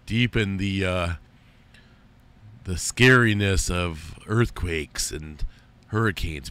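half-joking scary announcer voice; deep scary voice. Shown as a demonstration. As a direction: play up the scariness of earthquakes, slowly. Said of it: "I could probably talk like this".

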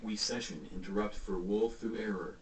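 put-on slurred drunk delivery. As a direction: sound drunk, words running together. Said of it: "Why you sound like a drunk person".

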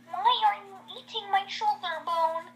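voiced Missy question. Missy to Han Solo, lightly voiced question. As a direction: ask it as a story character. Character voiced in improvised story.

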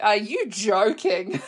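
slow, laughing can't-believe-it question; laughing disbelief. Real, not acted. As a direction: laugh through the words in disbelief. Reacts to rude remark.

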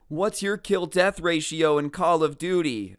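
half-shouted mock taunt; mock yell. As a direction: mimic a kid yelling a challenge, only moderately loud. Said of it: "cringiest things I've ever heard screamed at me".

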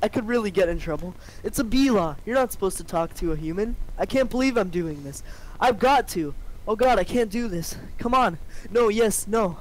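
a nervous bee psyching himself up. Acted.

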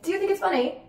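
high mock British accent; put-on British lilt, challenging. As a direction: imitate a British girl, pitched well up. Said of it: "these girls come in with a British accent".

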